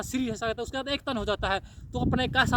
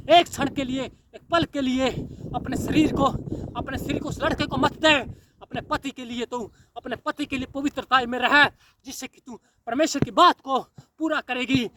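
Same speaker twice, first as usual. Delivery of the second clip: louder, rising fire-and-brimstone preaching; preaching at full force; 4 dB louder than usual. Acted. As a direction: thunder the warning at the crowd. Fiery warning sermon to sinners.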